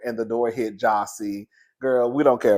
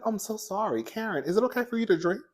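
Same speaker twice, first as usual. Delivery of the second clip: newscaster voice; 6 semitones higher, 6 dB quieter than usual. Retold or imitated. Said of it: "she got that newscaster voice".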